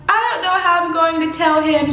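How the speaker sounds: high-pitched worried wail, re-enacted; retold panic. Retells panicked phone call to mom.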